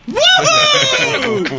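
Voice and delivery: high, loud whoop; cheering shout. Real, not acted. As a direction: whoop with delight. Cheering the Cajun phrase.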